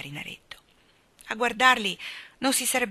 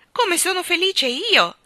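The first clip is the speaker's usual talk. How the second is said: high, loud, drawn-out shout of joy; happy shout; 11 semitones higher, 8 dB louder, slower than usual. A narrator's reading. Boy somersaulting in the air, happy shout. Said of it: "gridò Michael".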